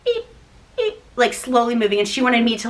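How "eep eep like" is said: high little "eep"; small squeak. Retold or imitated. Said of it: "I was like this".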